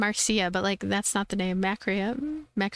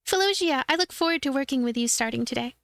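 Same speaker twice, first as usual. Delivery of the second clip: bright little helper, lifted high; high cute girl voice; 5 semitones higher than usual. Acted. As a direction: play the sweet, nervous apprentice. Voices Chirara.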